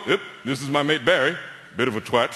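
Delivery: low, offhand introduction; a hint of a laddish Brit; casual British mate. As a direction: toss off the insult casually. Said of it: "I've actually seen people go".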